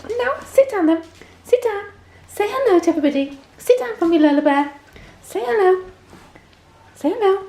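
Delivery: cheerful high orders to a puppy; talking to the dog. Real, not acted. Telling the dog to sit.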